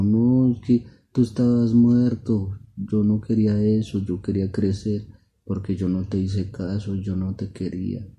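high, loud no, then gradually easing; acted childlike distress, no real sobs; upset daughter pleading. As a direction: confess it regretfully to papa. Crying daughter pleads with father.

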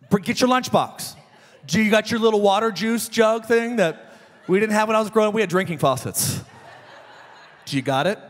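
a father checking off the list; mock-exasperated parent; exasperated dad. Dad scolding excited child.

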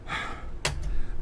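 soft exhaled sigh; exasperated sigh. Real, not acted. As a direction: breathe out, fed up. Exasperated with chat.

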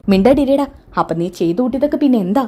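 sister-in-law shuts Abhi up, scolding; sharp scolding. Acted.

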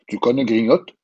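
put-on a jolly old man's question to the boy; old man asking. A narrator's reading. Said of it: "demanda le vieil homme". (question joviale du vieil homme)

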